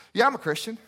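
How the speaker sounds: a hint of someone else's voice; casual self-declared Christian. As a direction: lightly mimic a breezy churchgoer. Acted doorstep exchange with nominal Christian.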